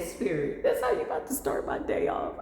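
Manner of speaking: amazed. Retold or imitated. Thrilled question to Spirit.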